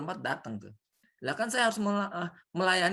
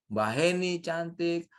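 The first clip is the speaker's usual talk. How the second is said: slow, gentle praise for each name; teacher modelling kind words; complimenting demo; 2 semitones higher, much slower than usual. Shown as a demonstration. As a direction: compliment them one by one, slowly. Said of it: "dan itu kalimatnya".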